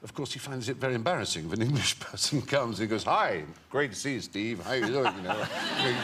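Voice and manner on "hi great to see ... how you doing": breezy American accent, imitating Hugh; an imitated American accent, a cheery hello. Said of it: "keeps his American accent all day".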